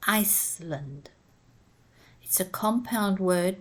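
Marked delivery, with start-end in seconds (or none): 0.1-1.1 "Iceland" said ICE-land with a clear S; S sounded in Iceland. Shown as a demonstration. Teacher modelling "Iceland" for pupils, S clearly sounded. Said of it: "but pronounce the last one".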